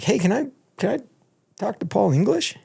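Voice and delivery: eager fan. Retold or imitated. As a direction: pipe up like a starstruck fan. Eager fan asking backstage.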